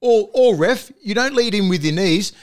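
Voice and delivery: frustrated fan yelling at the ref; exasperated demand. Real, not acted. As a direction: tell the bunker to use the rule, heated. Ranting at the bunker and ref.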